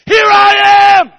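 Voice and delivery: huge, high, drawn-out shout; Isaiah answering God with confidence; confident cry. Acted. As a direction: fling it out with total confidence. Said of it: "with confidence said".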